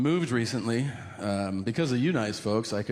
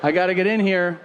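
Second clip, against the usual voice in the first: high, laughing, trying to sound cool; nervous laugh through fake enthusiasm; excited mock buddy voice; mock eager laughing reply; 7 semitones higher, 6 dB louder than usual.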